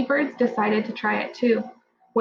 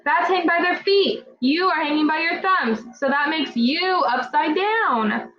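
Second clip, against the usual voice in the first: lightly voiced bat; 5 semitones higher than usual. Bat voice explaining.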